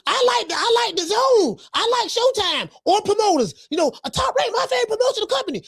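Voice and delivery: high, fast whiny fanboy voice, shouting at the end; high mock fanboy gushing over promoters. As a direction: sneer at promoter fans by playing one. Mocking fans who love promoters.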